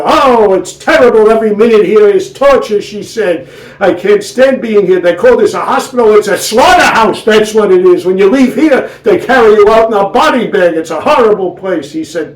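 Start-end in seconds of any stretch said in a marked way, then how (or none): 0.0-2.8 loud, whiny complaint; wife grumbling to her husband, raised and whiny; kvetching wife. Acted. 3.8-11.9 loud, whiny complaint; wife grumbling to her husband, raised and whiny; kvetching wife. Acted.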